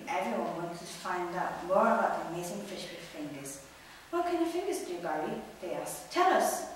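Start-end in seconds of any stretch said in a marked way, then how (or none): 4.1-5.4 eager question. Acted. Excited fish question Barry. 6.1-6.7 high, loud eager begging; eager plea. Acted. Fish beg Barry to tell.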